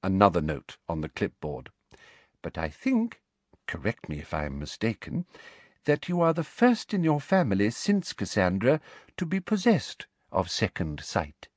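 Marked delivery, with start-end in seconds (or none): 2.4-11.5 sugary high-pitched official woman; sweet, prim and very high; prim high Umbridge voice. Acted. Umbridge questions Trelawney.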